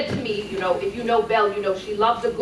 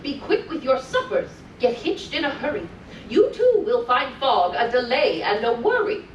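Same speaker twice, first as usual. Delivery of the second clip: put-on lilting read-aloud for small children; sing-song storytelling voice; storybook reading; 3 semitones higher than usual. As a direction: read it like a bedtime story to little ones. Reading continues.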